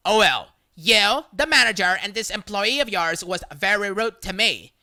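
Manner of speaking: loud, indignant demand to the manager; demanding complaint. Retold or imitated. Entitled shopper demanding a worker be fired, loud and indignant. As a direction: insist on getting him fired.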